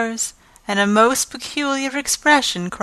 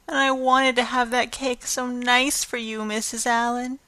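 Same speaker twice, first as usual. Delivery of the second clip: forlorn apology; 4 semitones higher than usual. Acted. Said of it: "said Anne forlornly".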